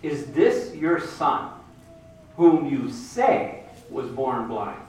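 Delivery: slow, leading, suspicious question; a sly Pharisee slowly baiting the parents; insinuating question. Retold or imitated. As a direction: draw it out like a trap. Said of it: "ask them a question in a very interesting way".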